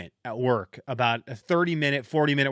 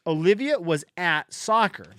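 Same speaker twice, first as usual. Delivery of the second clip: reading aloud; 4 semitones higher than usual. Shown as a demonstration. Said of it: "I'll read it to you".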